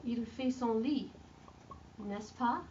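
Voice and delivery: statement falls on lit, then n'est-ce pas rises; tag question. Shown as a demonstration. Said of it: "adding the tag on".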